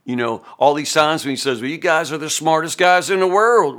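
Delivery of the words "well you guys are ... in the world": raised, louder mock praise; sarcastic. Preacher voices Job mocking his friends, sarcastic. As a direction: praise them as if you think they're dummies. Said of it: "or sarcastically".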